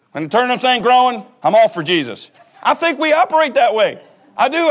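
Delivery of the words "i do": normal talking voice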